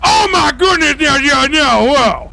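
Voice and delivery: high-pitched shocked exclamation; shocked outburst. Acted. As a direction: cry out in alarmed disbelief. Officer reacts to shock in roleplay.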